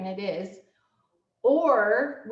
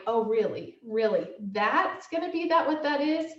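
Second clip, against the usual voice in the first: mock indignant, pitch jumping higher on the last words; inner indignant voice; 3 semitones higher than usual. To her husband in her head, sarcastic disbelief. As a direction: act out the snippy thought in your head. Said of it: "inside my head, I'm like".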